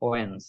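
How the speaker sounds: "ওয়েন্স" as one syllable, wenz; correct first syllable. Shown as a demonstration. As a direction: say "ওয়েন্স" with silent d. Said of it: "এটার right উচ্চারণ".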